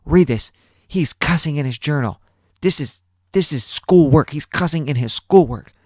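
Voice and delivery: high, loud mock outrage; hammed-up shocked student; outraged TA. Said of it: "She's like".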